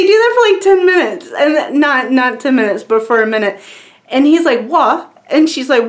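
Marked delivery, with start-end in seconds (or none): 4.7-5.1 a higher, bewildered British "What?"; "What?" in a playful British accent as the Doctor; confused UK accent. Retold or imitated. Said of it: "they talk in U K accents".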